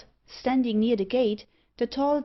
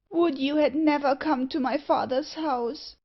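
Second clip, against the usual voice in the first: high-pitched, pained exclamation; anguished cry; 6 semitones higher than usual. A narrator's reading. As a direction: read it as a girl's anguished lament. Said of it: "in a voice of anguish".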